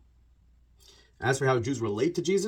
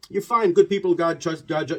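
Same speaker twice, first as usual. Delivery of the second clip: put-on evasive old man; 6 semitones higher, 7 dB louder than usual. Old Amish man dodging the question.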